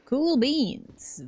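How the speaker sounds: ordinary delivery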